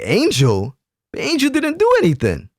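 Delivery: high-pitched incredulous retort, retold; mock disbelief. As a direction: imitate a baffled crowd, pitch jumping high. Crowd's disbelief at the accusation.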